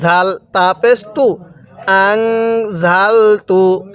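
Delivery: আং জাল তু with the নুন hummed through the nose; slow recited আং জাল তু; nasal ghunnah. Shown as a demonstration. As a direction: hold the nasal hum before জাল. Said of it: "নুন সাকিনের পরে জাটি হলো ইকফার হরফ".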